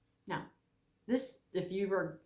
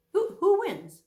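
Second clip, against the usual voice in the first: the question again, higher and louder; emphatic repeat; 11 semitones higher, 9 dB louder, slower than usual. Real, not acted. Preacher presses the congregation, louder and higher. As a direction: push it out to the room.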